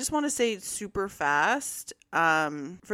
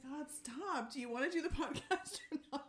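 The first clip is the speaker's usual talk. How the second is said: softer, laughing real plea; laughing through words; 5 semitones higher, 11 dB quieter than usual. Real, not acted. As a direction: try to talk while cracking up. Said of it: "she's gonna start crying".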